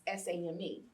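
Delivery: spelling S A M E letter by letter; letters spoken one at a time; spelled out. Shown as a demonstration. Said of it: "as sane".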